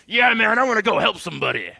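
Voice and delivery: mock eager volunteer; cheery helper voice. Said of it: "has the attitude of".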